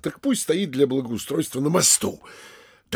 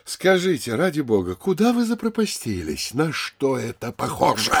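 упрёк; 4 semitones higher than usual. Acted. Упрекает пристава за опоздание.

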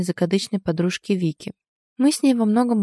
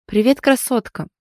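cheerful, higher-pitched hello; 5 semitones higher, 4 dB louder than usual. A narrator's reading. Heroine greeting her friend Вика, cheerful. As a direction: toss back a merry greeting. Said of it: "весело отозвалась я".

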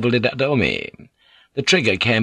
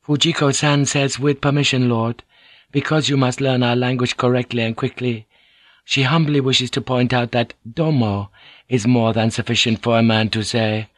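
lightly voiced humble interpreter; Mariko, courteous; 3 semitones higher than usual. Mariko translates Fujiko's language correction, lightly voiced and courteous. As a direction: correct him politely, pitch a touch raised.

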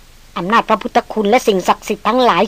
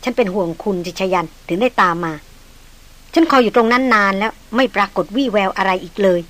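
tender concern; 3 dB quieter than usual. Acted. Maria comforts shaken Chayan.

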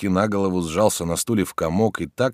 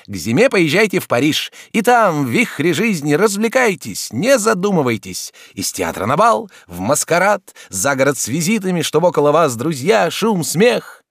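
higher, louder doctor advising brightly; raised voice of a doctor giving advice; doctor's voice; 10 semitones higher, 5 dB louder than usual. Acted. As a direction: play the chatty society doctor. Doctor prescribes Paris.

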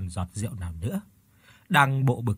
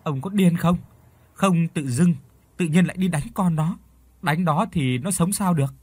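higher-pitched distressed scolding, lightly acted; crying and scolding; 5 semitones higher than usual. A narrator's reading. Wife scolding husband for beating their child, mildly tearful outcry. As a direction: protest in a tearful, raised voice. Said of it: "vừa khóc vừa la".

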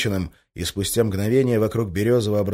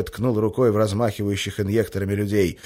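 usual speaking voice

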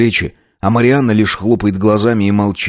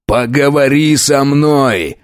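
shout; 5 semitones higher, slower than usual. A narrator's reading. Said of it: "кричу ей".

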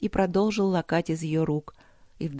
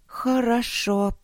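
high, slowly stretched agreement; drawn-out; 5 semitones higher, much slower than usual. A narrator's reading. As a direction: draw the word out, pitched high. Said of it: "протянула она наконец". (протяжно, высоким голосом)

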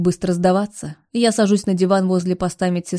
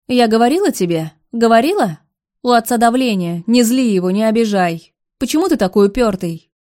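raised, higher, louder nagging rebuke; angry scolding; 3 semitones higher, 4 dB louder than usual. Acted. Mistress scolds Alex for upsetting his father, angry and loud. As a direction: scold him hard, up and loud.

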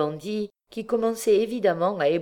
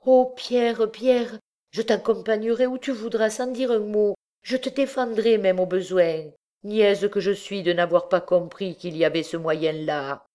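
eager relieved wife; 6 semitones higher, 3 dB louder than usual. Acted.

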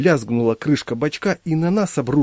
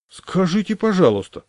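much higher, louder amazed exclamation; surprised; 8 semitones higher, 4 dB louder than usual. Acted. Squatter amazed at the table, a high surprised exclamation. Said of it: "удивился он".

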